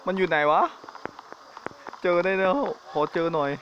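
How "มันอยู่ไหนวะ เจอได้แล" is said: tense, scared question while looking around; nervous search. Real, not acted. Searching nervously in horror game.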